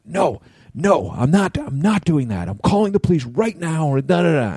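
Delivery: high, insistent imitation of an irate woman; mock angry refusal. Angry driver refusing to settle privately, mock yelling. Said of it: "yelling at me".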